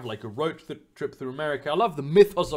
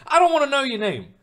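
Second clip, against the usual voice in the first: mock annoyed; 10 semitones higher, 5 dB louder than usual. Snapping at imagined chatty waiter.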